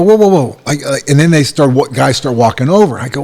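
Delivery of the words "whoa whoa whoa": raised, higher whoa whoa whoa; retold call to stop. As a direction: halt them mid-step. Retold stopping the officials.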